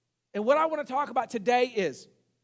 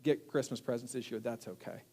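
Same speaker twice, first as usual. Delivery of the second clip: little daughter voiced; 6 semitones lower, 8 dB quieter than usual. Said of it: "my daughter looks at me and goes".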